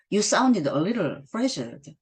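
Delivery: slow, hushed, voiceless whisper; husband's whispered concern. Acted. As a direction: breathe it out close to her ear. Husband speaks softly to wife.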